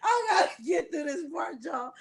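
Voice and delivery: fighting off a fit of giggles; laughing. Real, not acted. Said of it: "if I'm laughing".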